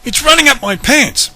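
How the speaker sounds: high, loud squealing panic; panicked shriek. A narrator's reading. Dad feels the ferret run up his pants, panicked shriek. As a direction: squeal in horror.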